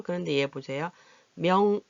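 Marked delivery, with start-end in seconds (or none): 1.3-1.8 명의 with a full ui in the second syllable; careful 명의. Shown as a demonstration. Teacher shows the written form of 명의, carefully pronounced. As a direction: sound out 명의 as written, myeong-ui. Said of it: "이렇게 나오는 경우도 있지만".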